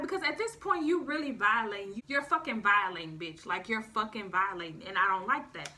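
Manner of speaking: loud, hammering repeated "violating"; angry scolding. Retold or imitated. To the ex at her aunt's house, loud angry scolding. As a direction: tell her off hard. Confronting ex.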